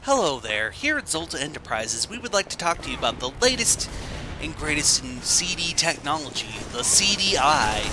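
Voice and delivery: smooth salesman commercial voice; mock infomercial announcer; ad read. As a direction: pitch the product like a TV ad.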